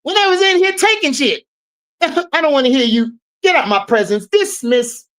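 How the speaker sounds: lightly voiced comedian scolding someone; mock Cat Williams dismissing an intruder; Cat Williams impression. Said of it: "In my Cat Williams voice".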